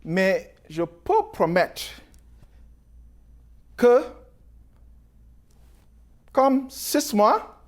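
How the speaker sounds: halting French with an English accent; foreign accent in french. Real, not acted. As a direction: speak French as a non-native, searching for words. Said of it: "Mon français n'est pas très fort".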